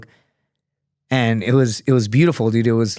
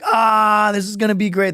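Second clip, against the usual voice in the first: imitated gleeful anticipation; 9 semitones higher than usual. Board members awaiting his next wrong answer, imitated high glee. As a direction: act out a board relishing the moment, pitched up. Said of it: "They're slamming the table".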